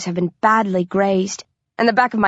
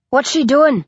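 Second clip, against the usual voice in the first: higher-pitched called-out question; anxious cry; 6 semitones higher than usual. A narrator's reading. Novice hunter asking about the trapped prey, crying out. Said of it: "I hear Tag cry".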